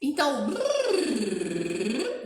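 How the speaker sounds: slow brrr lip trill. Shown as a demonstration. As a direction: brrr with loose lips, rolling the sound. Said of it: "Vamos relembrar?".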